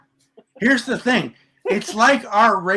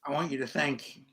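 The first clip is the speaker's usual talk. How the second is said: mock solemn; 5 semitones lower, 10 dB quieter than usual. Mock solemn address to caller.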